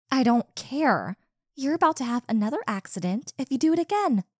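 loud, snapping threat; angry. Acted. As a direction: warn him hotly, fast on the second line. Threatening partner over accident.

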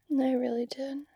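tender whisper. Acted. Still in the hug.

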